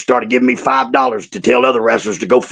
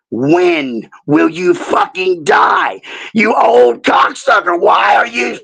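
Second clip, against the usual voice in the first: teasing shout; 6 semitones higher, much slower than usual. Retold or imitated. Leaning over old Joe's bed, shouting in mock anger. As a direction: bellow the insult at the old man, playfully. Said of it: "I lean over and I say".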